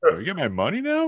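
high-pitched Jamaican caller imitation; mock Jamaican accent. Man joking as the scam caller, mock Jamaican accent. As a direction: echo the joke in a Jamaican voice. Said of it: "classy accent".

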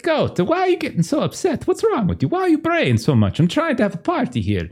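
high, fussy pleading voice; party host begging the goat to stop; flustered host. Acted. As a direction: whine at the goat to calm down. Fernando scolds the braying goat.

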